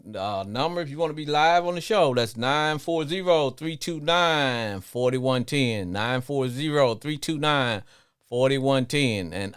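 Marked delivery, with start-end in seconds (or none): 2.4-5.9 nine four zero said slowly and spaced out; slow, clear number read. Real, not acted. Host slowly reading the call-in number to listeners. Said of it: "giving call-in number slowly". 5.9-9.3 slow, clear repeat. Real, not acted. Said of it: "repeating the call-in number".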